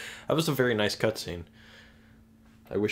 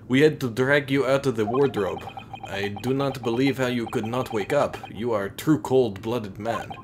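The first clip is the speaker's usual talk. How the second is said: put-on loud, heavy-accented scolding officer; stern Russian sailor; 3 dB louder than usual. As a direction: bark it like a gruff Russian seaman. Streamer voices Russian sailor officer.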